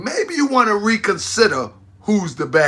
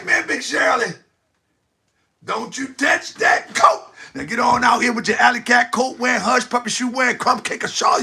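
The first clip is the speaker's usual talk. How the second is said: mock shooing away; 3 semitones higher than usual. Mock shooing Big Shirley away.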